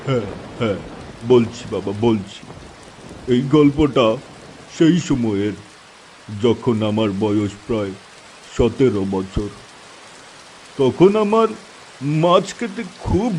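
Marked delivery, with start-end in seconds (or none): 0.1-7.9 put-on calm the eager boys down; gentle old uncle. Uncle soothing the youngsters. (নরম স্বরে আশ্বাস দেওয়া চাচা)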